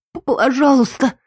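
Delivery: высоко, с кашлем, задыхаясь; выкашляй мольбу, захлёбываясь; кашляя в мольбе. A narrator's reading. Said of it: "закашляла я". (захлёбывающаяся мольба)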